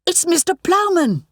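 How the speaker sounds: high joyful cry; delighted shout. A narrator's reading. Sarah Jane cries out with joy at the discovery. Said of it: "I shouted in delight".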